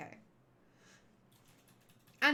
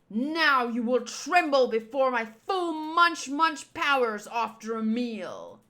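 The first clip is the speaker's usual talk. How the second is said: boastful villain king; 3 dB louder than usual. Acted. Villain king boasting before eating.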